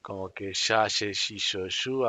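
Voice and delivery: teacher sounding out sh syllables. Shown as a demonstration. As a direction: run the syllables with a hushed sh onset. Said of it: "un sonido como de S H".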